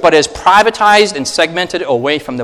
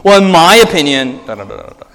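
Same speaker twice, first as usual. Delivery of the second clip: hedging millennial tone; 3 semitones higher, 3 dB louder than usual. Retold or imitated. Pastor mocks how people preface beliefs, hedging. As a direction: hedge your beliefs like a millennial. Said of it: "We're like".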